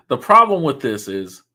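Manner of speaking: laughing through it. Real, not acted. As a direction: chuckle while saying it. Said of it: "gotta put a dollar in that swear jar".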